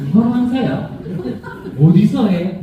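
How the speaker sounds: laughing imitation of nagging brothers; laughing mock question.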